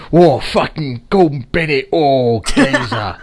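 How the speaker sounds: loud, high, hammed-up London geezer accent. Mocking a classmate's fake London accent for a friend, loud Cockney geezer. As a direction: bellow it like a cartoon Cockney geezer. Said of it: "His London accent was".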